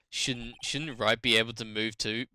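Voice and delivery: usual speaking voice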